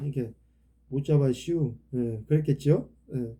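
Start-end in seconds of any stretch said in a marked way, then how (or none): 0.9-1.8 put-on Chungcheong accent with a "슈" ending; reply like a simple Chungcheong villager; lightly put-on Chungcheong dialect. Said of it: "충청도 말은 좀 멍청도 말 같고".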